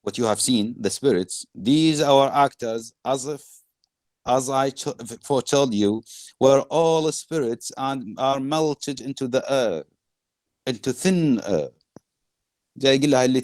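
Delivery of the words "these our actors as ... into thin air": slightly raised, deliberate reading; measured verse recital. Acted. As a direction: recite the speech in drawn-out phrases. Reads Prospero's speech to class.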